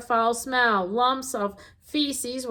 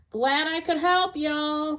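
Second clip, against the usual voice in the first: calling out; 5 semitones higher than usual. Acted. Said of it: "called the skunk".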